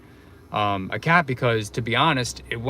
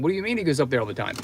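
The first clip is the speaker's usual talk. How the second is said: panicked; 3 semitones higher, much faster than usual. Retold or imitated. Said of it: "like, panicking".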